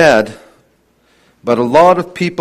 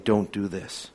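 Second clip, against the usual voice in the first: soft, distant pleading; an echo from a nightmare; faint haunting plea; 7 semitones lower, 13 dB quieter than usual. Retold or imitated. Joseph pleading in the brothers' nightmares, faint and haunting.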